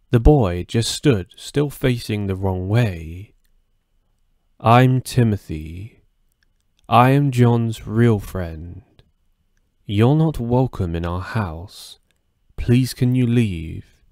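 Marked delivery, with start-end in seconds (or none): 4.6-14.0 put-on slow, menacing demonic child. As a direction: speak slowly like a possessed boy. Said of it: "All of this was said in a demonic voice".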